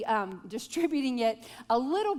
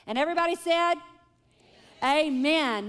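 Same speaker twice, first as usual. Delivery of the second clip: louder rally call for amen; call and response; 4 semitones higher, 4 dB louder than usual. Real, not acted. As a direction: rouse the room to answer amen. Calls the room to answer.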